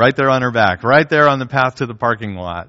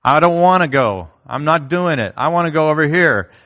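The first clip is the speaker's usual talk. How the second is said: higher, louder sulky protest; the heart refusing God's way, sulky; childish refusal; 4 semitones higher, 3 dB louder than usual. Retold or imitated. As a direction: dig in like a stubborn child. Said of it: "that desire that says".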